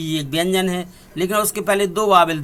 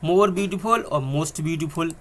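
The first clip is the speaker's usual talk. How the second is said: more beautiful and most beautiful, very slow and deliberate; teacher dictating the forms very slowly; slow dictation; much slower than usual. Shown as a demonstration. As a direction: spell it out slowly for the class. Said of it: "इसमें मोर लगा दिया".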